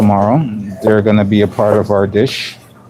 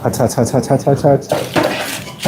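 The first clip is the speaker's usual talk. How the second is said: mouth full of hot food; 4 semitones higher, 3 dB quieter than usual. Real, not acted. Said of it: "Oh, you are so hot".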